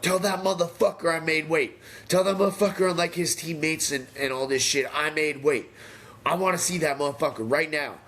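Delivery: high, hoarse-edged yell from the scale; shouting it across the room, raw and high; retold delirious screaming. Fighter yelling after making weight, half-delirious scream. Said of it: "now I'm screaming".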